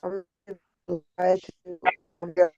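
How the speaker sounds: choppy call audio dropping out; words cutting in and out on a bad connection; breaking up. Real, not acted. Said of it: "You're breaking up now".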